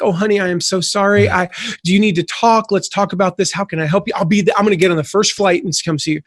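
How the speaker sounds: a hint of a sympathetic best friend fussing; caring female friend. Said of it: "a good female friend will call you back".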